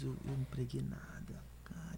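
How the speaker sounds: whispered despair to himself. Retold or imitated. Young preacher whispers to himself after a bad sermon, whispering. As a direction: breathe it out as a whisper, defeated.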